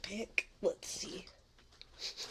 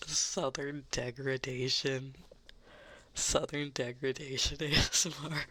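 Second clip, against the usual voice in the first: mock Southern degradation ASMR. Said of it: "I just immediately started thinking of".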